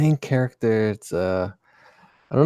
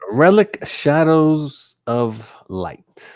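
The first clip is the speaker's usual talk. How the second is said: slow, grand title read; dramatic title reading; 6 semitones higher, 4 dB louder, much slower than usual. Acted. Co-host reading the comic's title to the stream, dramatic and drawn out. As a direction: draw the title out, higher. Reads title aloud theatrically.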